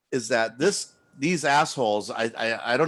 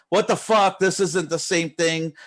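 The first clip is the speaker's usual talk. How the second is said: imitating an outraged customer, louder and higher; mock angry customer; 6 semitones higher, 4 dB louder than usual. Streamer mimics an angry customer emailing him, mock outrage. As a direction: play the furious emailer, half in jest. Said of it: "angry fucking, uh, emails from people saying".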